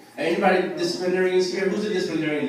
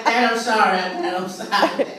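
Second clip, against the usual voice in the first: put-on pleading kid; 3 semitones higher, slower than usual. Son pleading, acted.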